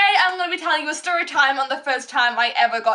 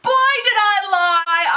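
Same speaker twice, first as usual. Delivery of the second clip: exclaiming; 6 semitones higher, 5 dB louder, slower than usual. Real, not acted. Confessing the lie.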